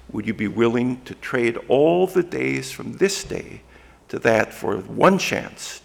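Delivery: loud, rousing call to outnumbered men; lightly voiced William Wallace urging them on; Braveheart rallying speech. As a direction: fling the question at them, then land NEVER. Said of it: "I wish I could say it in a Scottish brogue".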